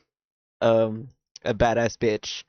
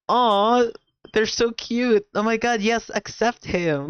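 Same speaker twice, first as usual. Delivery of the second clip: high, cooing mock crowd; gushing crowd; 9 semitones higher than usual. Imitating the cheering crowd in the park, high cooing. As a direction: coo like a swooning onlooker. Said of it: "the crowd around them were like".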